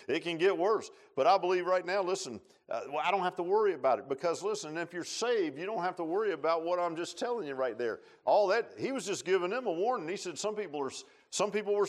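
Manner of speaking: loud, high, driving sermon voice; fervent preacher's climax; preaching at full force. Real, not acted. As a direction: lift the whole room with it.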